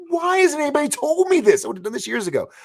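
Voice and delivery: very high, loud comic wail; hammed-up shriek of why-me frustration; mock exasperated outburst. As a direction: cry out in exaggerated disbelief. Acted outburst on learning of pay.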